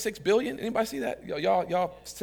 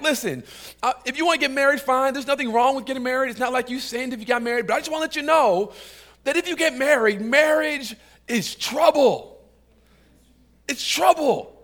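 raised-pitch, insistent voicing of Paul; earnest warning; 5 semitones higher than usual. Paul warns singles about marriage, insistent and high. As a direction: press the warning home, higher than usual.

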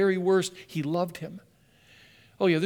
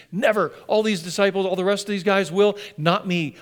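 vehement protest; 3 semitones higher, 4 dB louder than usual. Acted. Peter protesting to Jesus that he will never deny him, vehement. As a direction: swear loyalty with raised, emphatic force.

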